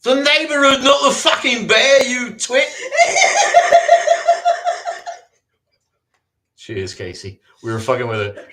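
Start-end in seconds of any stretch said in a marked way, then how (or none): 0.0-2.7 put-on very high, loud indignant London accent, laughing at the end; high-pitched, loud fake Cockney scolding; mock Cockney retort. 2.7-5.2 shrieking laugh; squeaky cackle of laughter; high squealing laugh. Real, not acted. Laugh after bit.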